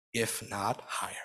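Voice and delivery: hushed whispered close; quiet whisper. A narrator's reading. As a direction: breathe it like a secret. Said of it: "He would only add quietly".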